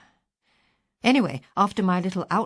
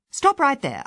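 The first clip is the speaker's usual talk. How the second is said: sharp command; 8 semitones higher, 5 dB louder than usual. Retold or imitated. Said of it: "I said".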